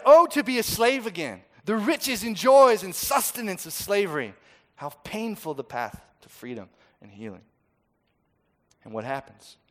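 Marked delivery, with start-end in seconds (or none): 0.1-4.3 high, loud ironic lament; mock their nostalgia for slavery; sarcastic mock longing. Preacher mocking the people's wish to return, high and loud.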